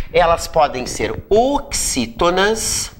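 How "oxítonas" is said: OXÍTONAS stretched out slowly, syllable by syllable; drawn-out term. Shown as a demonstration. Teacher naming the classes to students, drawn-out term. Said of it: "as palavras podem ter três classificações".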